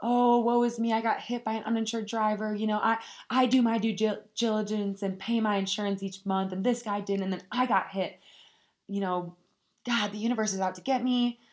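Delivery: mock self-pity, a whiny woe-is-me; whiny victim. Vlogger mocking herself as a victim, whiny self-pity. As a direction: whine like a self-pitying victim. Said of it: "play myself as a victim".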